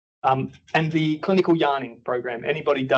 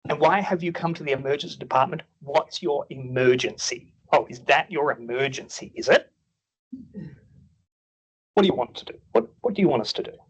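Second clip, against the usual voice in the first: sarcastic nurse. Retold or imitated. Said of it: "very sarcastic nurses".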